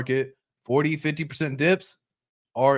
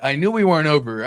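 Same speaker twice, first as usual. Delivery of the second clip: louder, leaning on we; excited investor; 2 semitones higher, 4 dB louder than usual. Retold or imitated. Investor watching the pump, leaning on we. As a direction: lean on we, louder and pleased. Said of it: "You're like".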